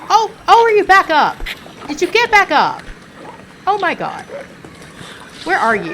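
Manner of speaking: high, loud panicked cries; startled shriek. Real, not acted. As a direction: shriek as it gets back up. Startled by enemy getting up.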